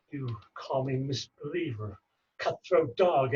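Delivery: measured stage delivery of a wronged moneylender; stage verse with long pauses; Shylock monologue. Acted. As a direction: play an aggrieved Shylock, lightly voiced. Repeats monologue after coaching.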